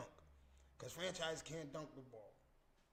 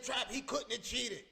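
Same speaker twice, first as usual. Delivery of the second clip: sing-song, higher mock of a woman insisting; mocking naive girl; 8 semitones higher, 11 dB louder than usual. A girl telling Trap her man never cheated, sing-song mock. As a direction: imitate her earnest sing-song defense. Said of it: "That's what a girl said to me".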